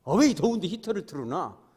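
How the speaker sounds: loud annoyed scolding; angry complaint. Retold or imitated. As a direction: snap at whoever turned the heater on. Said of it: "막 화내는 권사님들이 있어요".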